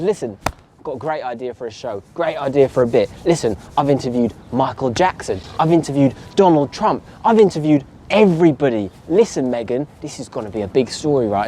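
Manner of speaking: put-on low Cockney accent, pitching an idea; Cockney Oprah. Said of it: "she talks just like that, Cockney accent".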